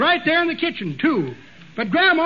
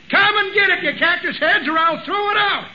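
calling out; 4 semitones higher than usual. Acted. Grandma calling the hired hands to dinner, hollering. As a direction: shout the hands in to eat.

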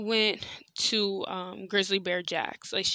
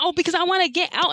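bratty friend voice; 9 semitones higher, 5 dB louder, faster than usual. Retold or imitated. Friend's retort in car.

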